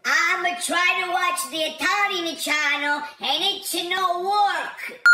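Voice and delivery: and it's no work slowed right down, Italian accent, work stressed; slow Italian-accented repeat. Shown as a demonstration. Caller repeats the problem to the machine, slow Italian-accented emphasis. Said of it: "Like I said".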